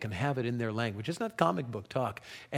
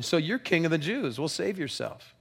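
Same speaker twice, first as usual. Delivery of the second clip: mocking soldiers; 5 semitones higher than usual.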